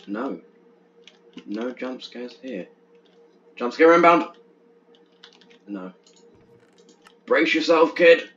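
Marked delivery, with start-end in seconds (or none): 1.4-2.7 softer, slow flat reply; dry anticlimax after the warning; deadpan letdown. Pretend. Deflated answer to own warning. 3.6-4.4 higher, loud dramatic warning; playful hammed-up warning; mock alarm. 7.2-8.3 higher and louder tough-guy line; hammed-up movie hero warning; playful action-hero heads-up; mock gruff warning. Hammy warning to player.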